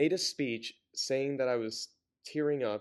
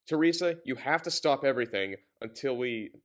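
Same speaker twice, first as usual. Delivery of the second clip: nasty mood; 5 dB louder than usual. Acted. The president on the phone ordering Teresa, in a nasty mood. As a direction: hit her name hard and furious. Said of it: "The president was in a nasty mood".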